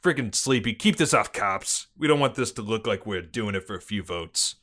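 put-on police chief briefing in a Boston accent; gruff-cop Bostonian, dropped R's. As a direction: lay out the case in Boston cop talk. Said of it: "Excellent Bostonian accent".

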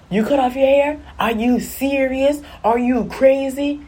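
high, incredulous mock scolding; imitated scolding mother. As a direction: play a Jamaican mom appalled, drawing out each question. Voices her mother's shocked scolding.

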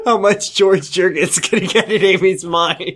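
words riding on laughter; laughing mockery. Real, not acted. Co-host mocking a reader's comment, laughing. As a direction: repeat it incredulously through laughs.

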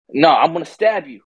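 mildly heated quote; mock angry threat. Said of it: "he gets even more angry".

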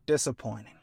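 unimpressed villain dad; disinterested. Retold or imitated. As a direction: shrug it off like it bores you. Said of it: "he says disinterestedly".

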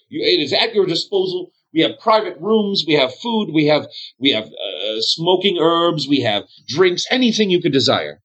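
high, eager innkeeper sales pitch; fawning bartender. Acted. Bartender offering rooms and food to the lord, fawning. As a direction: offer everything to please.

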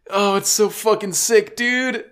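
high-pitched real fan excitement; gush, pitch soaring; thrilled gushing. Real, not acted. Fan gushing about the battle, thrilled.

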